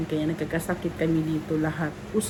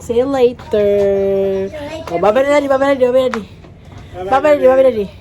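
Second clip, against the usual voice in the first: put-on high sing-song goodbye for a child; high baby voice; 7 semitones higher, 8 dB louder than usual. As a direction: wave bye on the child's behalf. Mother voicing child's goodbye.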